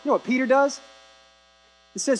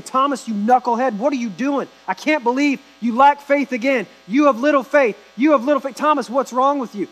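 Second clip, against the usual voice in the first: mock scolding Jesus; 3 semitones higher than usual. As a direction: scold Thomas in mock frustration. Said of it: "He doesn't come in and say that".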